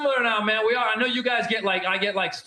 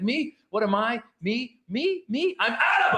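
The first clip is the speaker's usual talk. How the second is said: proud Arab friend. Retold or imitated. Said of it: "He's like".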